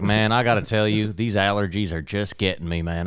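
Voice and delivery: put-on lightly drawled Midwest-ish accent; slight drawl. Apple support guy complaining of allergies to customer, slight drawl. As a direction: mimic a chatty guy with a little drawl. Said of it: "I gave it a little drawl for sure".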